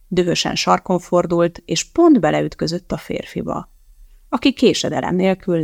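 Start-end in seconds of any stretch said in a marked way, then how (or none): none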